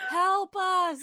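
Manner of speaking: laughing cry of help; a hammed-up high plea through laughter; mock plea. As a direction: pretend begging for rescue.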